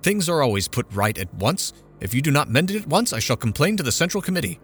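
mother threatening the committee, indignant; indignant complaint. A narrator's reading. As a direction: threaten to go over their heads.

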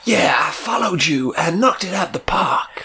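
whispered comic persona; breathy whisper, deadpan. Acted.

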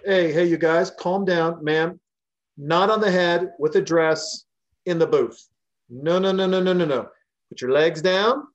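mock-schoolmarm telling her to sit down properly; scolding a rowdy customer.

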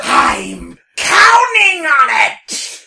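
high shouted joke. Acted.

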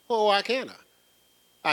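high, loud, slow challenge; challenging retort. Retold or imitated. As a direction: push back, daring. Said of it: "You can't do this one".

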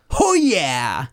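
drawn-out mock catchphrase cry; trademark exclamation. Shown as a demonstration. Host showing co-hosts the Ho Yeah, a hearty catchphrase cry. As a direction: call out the catchphrase properly, stretched. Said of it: "Gotta actually do it properly".

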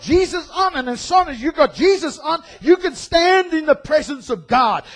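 loud, ranting parody of a scare preacher; mock a preacher threatening hellfire; hammed-up sermon of a wrathful God; mocking fire-and-brimstone preacher. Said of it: "preach the gospel in a way of saying".

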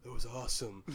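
fast, gushing starstruck fan; Chris Farley. Retold or imitated. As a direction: gush fast like a nervous fanboy host. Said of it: "Chris Farley".

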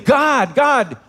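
a preacher's restrained imitation of crying out. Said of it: "he's crying out something".

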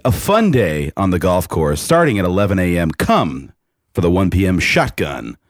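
upbeat event announcer read; promo voice. Pretend. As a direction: pitch the tournament like a radio spot. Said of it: "put on your best promo voice".

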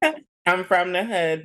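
laughing. Real, not acted. Laughing repeat, louder and higher.

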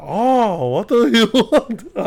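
high, loud, drawn-out mock Asian accent; caricatured Asian accent, slow and loud; imitated Asian accent. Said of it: "it's literally me doing the Asian accent".

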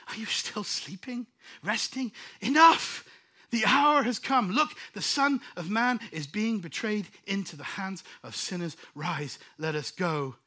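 sudden loud rebuke of Jesus; Jesus rebuking. Acted. Preacher voicing Jesus rebuking disciples.

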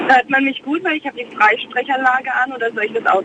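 hollow, distant hands-free phone sound; talking into a phone on hands-free; on speakerphone. Real, not acted. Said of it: "Wenn ich ehrlich bin, ist es furchtbar". (über die Freisprechanlage)

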